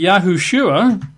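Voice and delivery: Yahushua said yah-hoo-SHOO-ah; extra syllable. Shown as a demonstration. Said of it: "extra syllable there".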